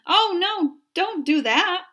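high, loud desperate plea; begging. A narrator's reading. A boy begging his father to spare his fig tree, pleading. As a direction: beg him not to pull the tree out. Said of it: "I begged".

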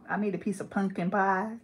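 "pumpkin" said as "punkin"; casual N pronunciation. Shown as a demonstration. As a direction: test "pumpkin" in a sentence with n for m. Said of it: "That's hella ghetto".

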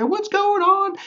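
very high, chummy mock greeting; super nice neighbor. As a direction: imitate a gushingly friendly guy calling out. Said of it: "Just like this super nice guy".

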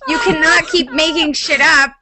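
mock ranting Plato. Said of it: "he was like".

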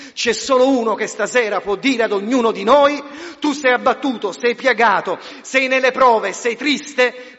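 loud, soaring preacher's voice; fiery pulpit proclamation; forceful preaching. Acted. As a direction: proclaim it to the whole hall.

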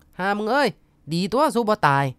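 ดุช้าๆ เสียงสูงขึ้น; ดุหลานแบบคนแก่ตำหนิ; ดุแบบเลียนผู้ใหญ่. Retold or imitated. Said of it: "ก็ดุเอานะคะ". (ทวดดุหลานช้าๆ เสียงสูงขึ้น)

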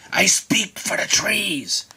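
slow unvoiced whisper. Lorax repeats his warning to the Onceler, whispered slowly. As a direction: breathe it gravely and slow.

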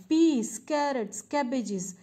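lightly acted street seller's cry, high start stepping down; vendor's call. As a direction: call out wares like a vegetable seller. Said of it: "calls the vegetable man".

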